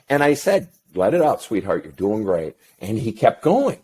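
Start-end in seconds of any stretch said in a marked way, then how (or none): 0.9-2.5 soothing father. Retold or imitated. Father soothing crying son.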